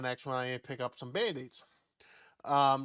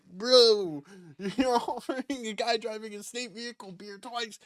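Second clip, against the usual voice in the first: laughing disbelief; 7 semitones higher, 4 dB louder than usual. Retold or imitated. Incredulous retort to beer offer.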